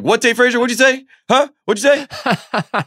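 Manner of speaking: high, confused mock voice of Lombardi; imitating Lombardi. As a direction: squeak it out like a baffled old man who can't hear. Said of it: "He's like".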